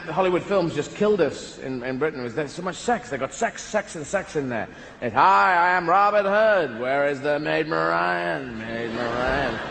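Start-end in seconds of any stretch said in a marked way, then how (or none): 5.2-9.6 put-on American accent. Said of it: "Robin Hood has an American accent".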